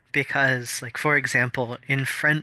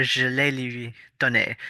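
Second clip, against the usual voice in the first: lightly French-accented Je l'ai lui donné. Shown as a demonstration. Giving a friend a French example, lightly French-accented. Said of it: "you can have, like".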